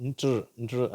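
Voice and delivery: "இன்ட்ரு, இன்ட்ரு" as blended ntr; NTR sound. Shown as a demonstration. Teacher naming the cluster sound, "இன்ட்ரு, இன்ட்ரு" as ntr. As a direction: say "இன்ட்ரு, இன்ட்ரு" with n running into tr. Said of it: "அப்படின்ற மாதிரி உச்சரிப்பு".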